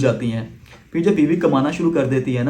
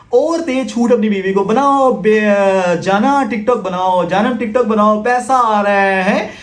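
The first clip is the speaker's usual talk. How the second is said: higher, slowed, sneering mock of the husband; mocking impression; 5 semitones higher, much slower than usual. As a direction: drawl it out like a fool cheering his wife on. Mocking the earning wife's husband.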